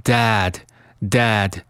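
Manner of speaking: "Dad" with a wide open a; "Dad" with a full, open æ vowel; wide-mouthed vowel. Shown as a demonstration. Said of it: "需要注意是一个大口型".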